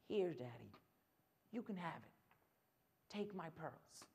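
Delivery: put-on soft, low, sorrowful child; tearful surrender, acted. Crying girl handing dad her pearls, hushed acted sadness. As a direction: give it up quietly, halting between phrases. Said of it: "and she's crying".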